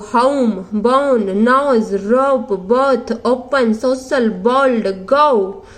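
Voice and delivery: words stretched slowly with an ओ-ऊ glide; slow diphthong drill. Shown as a demonstration. Teacher drilling the class on ओ-ऊ words, slow. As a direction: read each word slowly, leaning on the glide. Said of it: "औ, ऊ".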